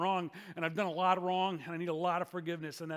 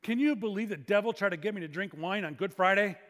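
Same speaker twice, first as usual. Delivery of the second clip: retold loud remark, moderately raised; 5 dB louder than usual. Guy remarking after the wine group leaves, out loud. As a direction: put it out to the room, a little loud. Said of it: "this guy says out loud".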